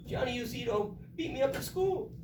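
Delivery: high-pitched tearful little boy imitation; mock-tearful schoolboy whine; crying child. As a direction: act out a kid wailing a complaint. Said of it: "sees him crying".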